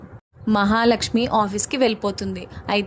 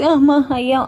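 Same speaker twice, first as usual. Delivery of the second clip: louder, higher pained cry of aches; hammed-up cry of pain; groaning in pain; 4 semitones higher, 6 dB louder than usual. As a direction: moan it out like a bad back. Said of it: "అంటూ నొప్పులు పడుతూ ఉంటాడు".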